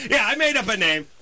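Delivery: high-pitched, exasperated mock confession; sarcastic. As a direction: rant with incredulous sarcasm. Sarcastic caller continuing mock confession.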